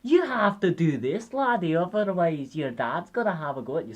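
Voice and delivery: hammed-up Scottish old warrior; huffy Scottish accent. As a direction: warn the lad in broad Scottish. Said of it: "huffy Scottish voice".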